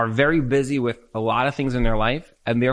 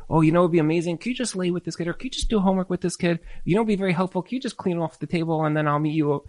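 sweet request; 2 semitones higher, 4 dB quieter, faster than usual. Shown as a demonstration. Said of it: "would be very wise to say".

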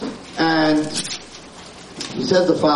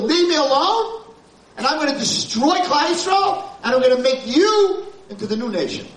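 raised, commanding divine decree; stern voice of God; 10 semitones higher than usual. Acted. Rabbi voicing Hashem's anger at the nation, stern high command. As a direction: thunder it down as God rebuking Moshe.

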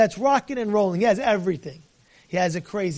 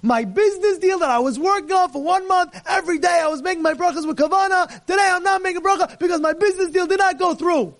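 higher, sing-song sulky excuse; mocking whiny excuse; 5 semitones higher than usual. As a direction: parody a spoiled complainer.

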